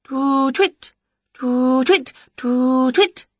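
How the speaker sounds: high, insistent repeated hoots; owl imitation. A narrator's reading. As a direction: try owl calls in a high voice. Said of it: "Winnie tried again".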